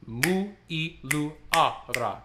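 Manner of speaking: Mu i lu adra spoken slowly; first slow run at the words; slow practice. Shown as a demonstration. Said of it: "we're gonna get a little faster".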